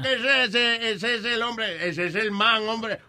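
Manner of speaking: put-on Colombian accent. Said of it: "in the Colombian accent".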